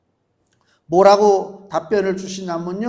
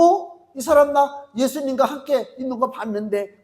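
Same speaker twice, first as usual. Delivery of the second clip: higher surprised accusing voice; servant girl accusing; 5 semitones higher than usual. Acted. Servant girl spotting Peter by the fire, surprised accusation. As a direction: point him out in surprise.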